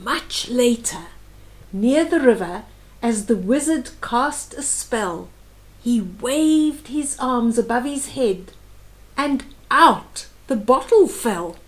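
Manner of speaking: rhythmic read-aloud of a rhyming book; storybook reading voice; story narration. A narrator's reading. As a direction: read the verse gently to a small child. Reads picture book aloud.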